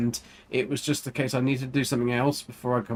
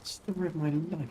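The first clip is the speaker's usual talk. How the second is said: whisper; 3 semitones higher, 5 dB quieter than usual. Real, not acted. Whispered aside.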